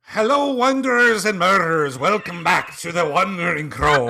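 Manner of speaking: put-on loud, high Irish-accented greeting; big Irish-accent show welcome. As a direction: welcome everyone with a hammed-up Irish lilt. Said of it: "I'll be done with that accent".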